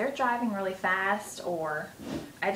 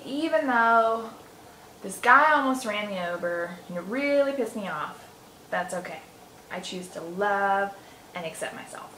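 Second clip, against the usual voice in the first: EFT setup statement. Shown as a demonstration. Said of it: "start with the setup statement and say".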